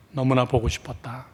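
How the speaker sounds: low, hushed brotherly longing; tender reunion. Acted. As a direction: say it softly to a long-missed brother. Brother embracing his returned sibling.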